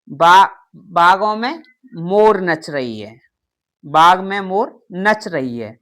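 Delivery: बागों and बाग said slowly with a final gh sound, dictation pace; slow demo. Shown as a demonstration. Teacher reading an example sentence to the class, slow and clear. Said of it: "नुक्ता लगा होना चाहिए".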